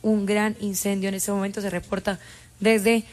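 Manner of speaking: measured, even breaking-news delivery; level, factual on-air announcement; news report. Real, not acted. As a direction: report it like a radio bulletin.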